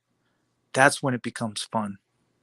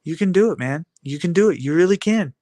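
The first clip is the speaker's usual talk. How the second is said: cheering on; 3 semitones higher than usual. Real, not acted. Cheering himself on.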